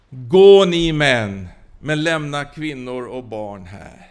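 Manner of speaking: loud, slow, lordly go ye men; a grudging king handing down a concession; Pharaoh's terms. Acted. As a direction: Pharaoh on his throne, loud then dropping.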